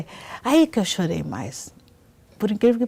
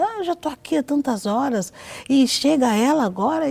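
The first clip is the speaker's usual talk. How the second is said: higher-pitched mock grumbling of a waiting crowd; retold indignant complaint; complaining; 6 semitones higher than usual. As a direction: protest at someone jumping the queue. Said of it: "pessoal tudo reclamando".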